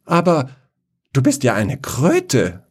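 taken aback at the sight; surprised prince. Acted. Prince sees the frog for the first time, startled.

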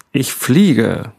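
high, excited shout. Acted. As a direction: shout it out in triumph. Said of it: "und schrie". (hoher, aufgeregter Ruf)

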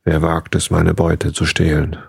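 slow, booming dragon voice; a lightly voiced dragon, roaring its challenge; thundering dragon voice. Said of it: "da ertönte eine Stimme wie Donner".

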